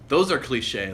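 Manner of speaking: mildly mocking echo; mocking her. Guy echoes his date's verdict on his films, mocking. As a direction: parrot her words back with light mockery. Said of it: "like, just mocking her".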